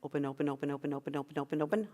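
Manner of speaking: soft coaxing. Shown as a demonstration. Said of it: "Feel it open".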